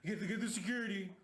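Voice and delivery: quick mock-panicked call for security; mocking Bobby. Mimicking Bobby calling for his guards. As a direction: rush it out like a scared man hiding. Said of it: "he's like".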